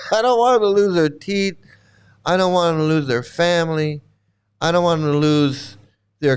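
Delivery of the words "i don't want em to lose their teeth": laughing through the line, higher; a rueful laugh breaking into the words. Real, not acted.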